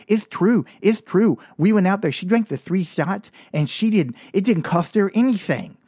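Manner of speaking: high, loud, lisped backing-up of a friend; lisping sidekick. Retold or imitated. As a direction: mimic an eager tagalong, lisping "It's true". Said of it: "They had this lisp".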